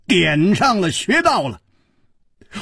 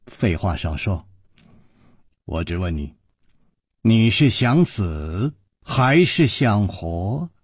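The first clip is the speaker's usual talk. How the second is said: put-on sneering old woman; 8 semitones lower, 3 dB quieter than usual. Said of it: "花金公说".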